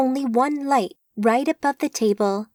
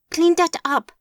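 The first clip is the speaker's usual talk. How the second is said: commanding order; 8 semitones higher, 4 dB louder than usual. Acted. Boss ordering his men.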